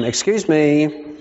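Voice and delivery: slow, prim "the response is 'fine'"; mock stern correction. Preacher reminding a friend of the rule, mock stern. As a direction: correct them like a stickler, slowly. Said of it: "So I had to remind them".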